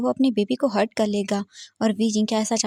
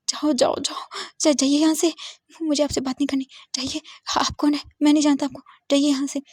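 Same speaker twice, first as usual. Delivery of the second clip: tearful shouting; 5 semitones higher than usual. Acted. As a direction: push him away with a rising shout. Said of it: "वी जिंग जोर से चिल्ला रहा था". (रोते हुए ऊँची आवाज़ में चिल्लाना)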